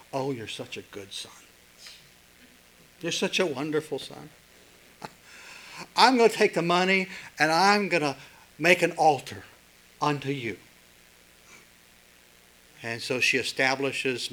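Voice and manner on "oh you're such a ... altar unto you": doting mom. Retold or imitated. Mom voiced in a story.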